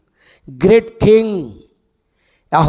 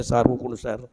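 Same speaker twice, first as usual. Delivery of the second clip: put-on boy answering; 8 semitones lower, 8 dB quieter, much faster than usual. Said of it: "అంటే".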